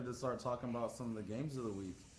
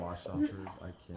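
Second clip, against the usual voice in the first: store announcer; 3 semitones lower, much faster than usual. Pretend. Echoes the store announcement joke.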